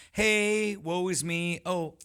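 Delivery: high, whiny woe-is-me voice; mock whining about hardship; mock self-pity. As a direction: ham up a pitiful complainer. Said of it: "like you said, trigger".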